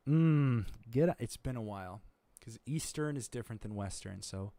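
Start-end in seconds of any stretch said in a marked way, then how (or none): 0.9-1.1 Australian accent. Shown as a demonstration. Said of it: "it's more".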